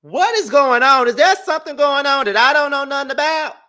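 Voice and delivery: high, loud nosy gasp; mock shock. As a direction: act scandalized and nosy. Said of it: "I'm like".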